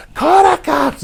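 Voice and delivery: high taunting squeak; mock skinny guy. Mocking the skinny guy daring him, high squeaky taunt. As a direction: pitch it way up and sneer. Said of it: "the skinny guy".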